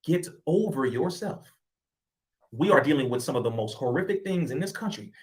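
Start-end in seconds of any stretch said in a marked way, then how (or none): 0.0-1.5 slowly, as honest advice given in love; sincere. Real, not acted. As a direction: say it to his face with genuine care, taking your time. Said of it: "true love".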